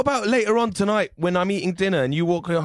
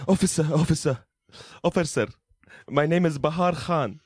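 a lightly put-on low accented dad voice; accented father; 4 semitones lower than usual. Father reports his stolen flowers to the officer, lightly accented and pleading.

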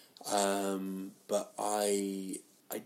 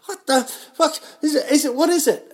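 much higher, much louder freaked-out shout; shocked yell; 13 dB louder than usual. Retold or imitated. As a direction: yell in alarm at the strange bone. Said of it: "I was like".

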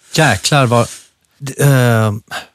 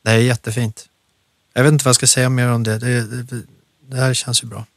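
close to tears; 2 semitones lower, 5 dB quieter, faster than usual. Real, not acted. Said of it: "nu börjar jag gråta lite grann".

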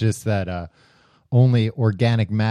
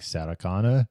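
low-key, quieter robotic killer line; lightly voiced killer cyborg asking for his target; a hint of the movie cyborg's voice; Terminator; 3 semitones lower, 4 dB quieter than usual. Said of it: "later when he's like".

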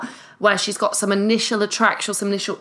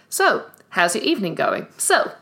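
chirpy sidekick voice. Shown as a demonstration. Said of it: "This is back to this voice again".

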